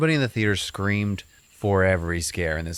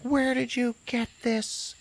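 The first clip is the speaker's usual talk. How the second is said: shocked, slow question; slower than usual. Retold or imitated. Mom shocked by old photo.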